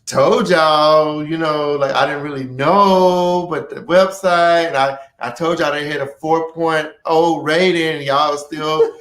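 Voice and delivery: defensive, drawn-out excuse; backing himself up. Acted. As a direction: cover yourself with excuses. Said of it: "he's backing himself up".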